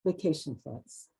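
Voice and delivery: title set apart, then measured recital; poetry reading. Acted. Poet imagining their summer holidays, measured poem reading. Reads own poem aloud.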